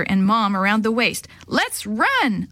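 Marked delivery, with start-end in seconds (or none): 1.5-2.5 screech. Acted. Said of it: "I screeched".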